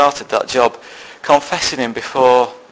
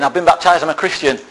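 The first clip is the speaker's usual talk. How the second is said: higher, louder sudden outburst; blurting it out; 5 semitones higher, 4 dB louder than usual. Retold or imitated. His turn in the introduction circle, blurting it out. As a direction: blurt it out all at once, nervously. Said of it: "I'm blurting it out".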